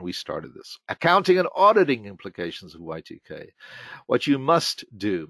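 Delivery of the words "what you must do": "must" underlined by the voice; stress on must. Shown as a demonstration. Speaker reading an emphatic presentation title, stressing "must". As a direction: lean firmly on the word "must". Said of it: "must was highlighted and underlined".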